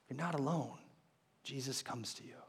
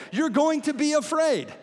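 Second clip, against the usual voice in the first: loud, high, slowed for force; incredulous, raised-voice insistence; emphatic exclamation; 8 semitones higher, 4 dB louder than usual. Real, not acted. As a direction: punch every word, voice raised. Emphatic retort to the ghost's cry.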